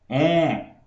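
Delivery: nasal "on", held through the nose; nasal o vowel. Shown as a demonstration. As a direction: sustain a nasal "on". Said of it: "eu posso falar". ("on" nasal e sustentado)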